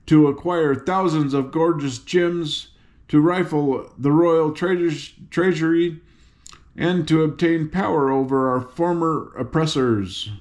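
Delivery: a hint of a girl general's speech; General Ginger addressing troops. General Ginger addresses her army.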